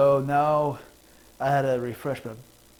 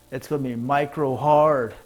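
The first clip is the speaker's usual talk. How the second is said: laughing punchline; 6 dB louder than usual. Acted.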